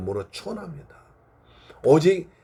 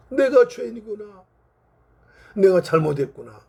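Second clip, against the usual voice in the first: repentant. Acted. Missionary realising the failure before God, repentant. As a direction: confess it, with a touch of anguish. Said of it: "라고 크게 회개했다는".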